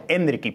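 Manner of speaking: "Hendriki" said with a ki ending; Brazilian final i. Shown as a demonstration. Guest reporting how it's said, "Hendriki" ending in ki. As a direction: close "Hendriki" on an added i. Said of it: "al final como una I".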